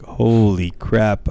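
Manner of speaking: slow, drawn-out amazement; retold awe. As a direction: stretch it out in awe. Retold awe at his height.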